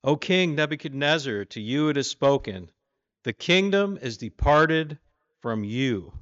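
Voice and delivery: a hint of a booming divine verdict; voice from heaven. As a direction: proclaim it like heaven calling down on the king. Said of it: "you hear this voice".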